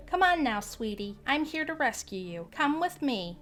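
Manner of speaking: high, sugary coax; lady sweet-talking the little boy; coaxing old lady. Acted. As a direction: lure the child sweetly.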